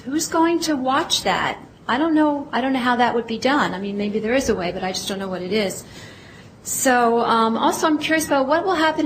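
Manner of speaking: nervous speaker, voice trembling; shaky nervous voice. Real, not acted. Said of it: "so I'm sorry my voice is shaking".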